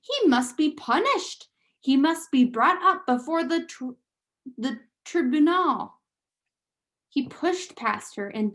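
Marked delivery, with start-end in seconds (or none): 0.0-6.0 mild mock shout. Lester demands the son be punished, mild shout. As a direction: insist a bit higher and harder. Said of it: "shouted Lester".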